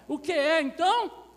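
high, shouted question to the crowd; booming prompt, pitched right up; very loud call. Real, not acted. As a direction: call out loudly for the congregation's answer. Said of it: "falando bem alto".

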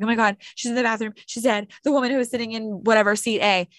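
fast, breathless panic with little rise in pitch; panicked rush. Retold or imitated. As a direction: blurt it out in a rush, freaking out. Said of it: "she's freaking out".

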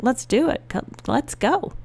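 high-pitched retold eagerness, urging them on; excited. Dad joining in on a new idea, excited. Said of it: "he was excited".

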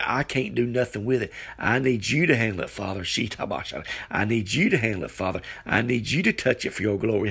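earnest prayer pitched a little under preaching; insistent, heartfelt petition to God; crying out in prayer. Shown as a demonstration. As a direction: plead with the Father to take it over. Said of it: "We cry out to God like this".

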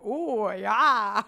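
mom's swoon. Retold or imitated. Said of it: "but she was like".

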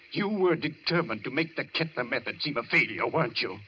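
building accusation. Acted. Mental patient accusing his doctor, rising to a shout. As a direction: hammer the question home harder.

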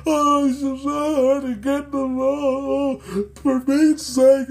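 slow, stretched-out wail; hammed-up toddler bawling to mock him; mock crying four-year-old. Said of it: "crying like a frickin' four-year-old".

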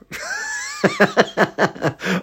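very high giggle; real high-pitched giggling fit; laughing. Real, not acted. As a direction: crack up at the thought. Laughs after quoted excuse.

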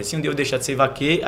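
"vaqueiro" cut short after the stressed "quei", final "ro" dropped; cut at last stress. Shown as a demonstration. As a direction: end on a rising "vaquê" for "vaqueiro". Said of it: "aí vai dar no décimo".

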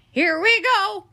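high, loud mock-echo of the plea; stubborn Eugenia. Eugenia answering Baby's plea, loud and mocking. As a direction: throw her words back at her.

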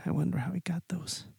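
whispered aside; conspiratorial whisper. Real, not acted. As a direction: whisper it like a dangerous secret. Aside about stolen comics.

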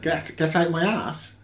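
slow put-on northern growl, missing the mark; a failed attempt at Yorkshire; Yorkshire accent. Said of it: "That's not Yorkshire".

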